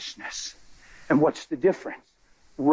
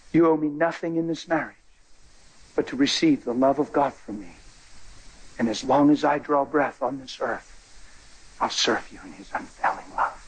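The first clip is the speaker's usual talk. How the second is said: solemn vow; 2 semitones lower than usual. Retold or imitated. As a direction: make the vow tenderly, then hush. Solemn vow, fading to whisper.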